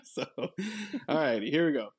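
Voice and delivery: very slow, still catching breath from laughter; winding down after laughing hard. Real, not acted. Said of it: "let me compose myself here".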